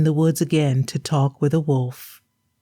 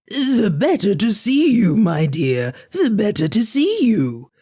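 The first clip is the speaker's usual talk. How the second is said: higher sly granny voice; a wolf faking a sweet old woman; wolf as grandmother; 5 semitones higher than usual. Acted.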